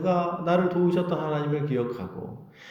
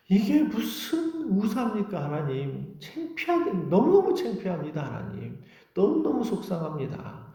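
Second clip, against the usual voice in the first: anguished lament; 4 semitones higher than usual. Acted. Believer lamenting to God over being shamed, anguished pleading. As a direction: plead in mild, acted distress.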